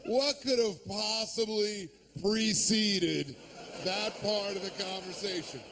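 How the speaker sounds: ordinary talk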